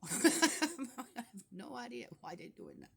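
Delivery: slow, laughing incredulity; amused and baffled; laughing disbelief. Real, not acted.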